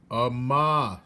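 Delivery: loud shout. Acted. Soldier shouting to hard-of-hearing Mig. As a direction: call it out to a deaf girl. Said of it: "shouted the soldier".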